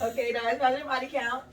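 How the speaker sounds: laughing while speaking. Real, not acted. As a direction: giggle through the whole line. Joke about body count.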